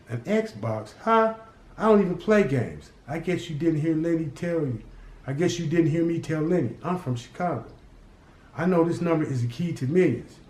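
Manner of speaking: put-on a boy laughing off a gangster's bribe; mocking street kid.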